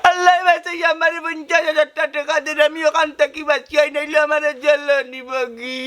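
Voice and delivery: mildly tearful plea; tearful pleading. Acted. Man begging for money to avoid jail, tearful pleading. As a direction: beg with a sob creeping in.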